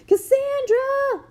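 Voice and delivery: long, high, loud call, slowly drawn out; slow, drawn-out shout next door; loud yell. Retold or imitated. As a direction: holler a friend's name over the fence. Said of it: "two houses and yell".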